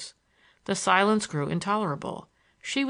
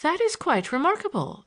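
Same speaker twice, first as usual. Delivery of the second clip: higher, dryly ironic remark; 10 semitones higher than usual. Acted. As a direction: say it with irony. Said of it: "nodded her head ironically".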